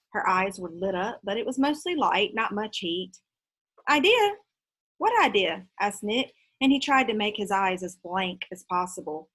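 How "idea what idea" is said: mock innocence. Nick plays innocent.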